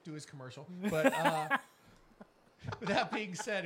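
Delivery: giggling while reading the show notes; laughing through words. Real, not acted. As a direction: keep laughing as you talk. Host laughing through sign-off.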